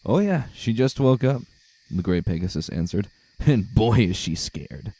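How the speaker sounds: enjoy the captive's fear; smug pegasus. Acted. Greygale mocks the captive.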